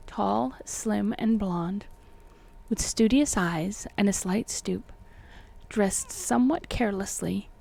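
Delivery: measured, formal audiobook reading; deliberate literary narrator delivery; story narration. A narrator's reading. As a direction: read the old tale with careful phrasing. Reads the book aloud.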